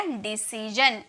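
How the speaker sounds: डिसीजन drawn out slowly; slow model word. Shown as a demonstration. Teacher to class, slow careful डिसीजन. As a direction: say डिसीजन slowly, every syllable clear. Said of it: "तो क्या हो गया?".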